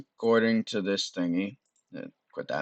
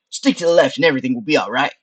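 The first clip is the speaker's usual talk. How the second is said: lightly voiced skull, quick; Frank; 3 semitones higher, 6 dB louder, faster than usual. Skull guiding through the maze, quick light character voice. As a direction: rattle off the advice as the skull. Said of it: "Frank says".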